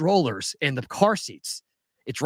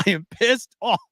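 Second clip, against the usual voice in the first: slow, emphatic venting, rising higher; retold anger; 4 semitones higher than usual. Traveler quoting his late-night texts to Amanda, emphatically mad. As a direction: stretch out each word in retold exasperation. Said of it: "I'm still mad. I was mad last night".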